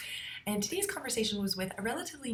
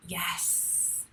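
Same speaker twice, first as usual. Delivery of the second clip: softer, drawn-out accepting yes; allowing yes; 5 dB quieter than usual. Shown as a demonstration. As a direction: demonstrate a welcoming, softened "yes". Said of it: "it actually makes the sound".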